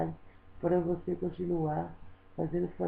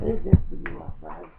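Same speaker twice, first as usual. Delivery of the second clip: louder, pleading with everything; desperate loud plea; 7 dB louder than usual. Real, not acted. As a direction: beg him to look, voice raised. (suplicando em voz alta)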